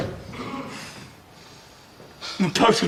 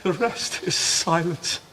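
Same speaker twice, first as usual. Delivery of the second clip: soft, slow dying breath; fading last words, barely voiced; faint deathbed whisper; 2 semitones lower, 7 dB quieter than usual.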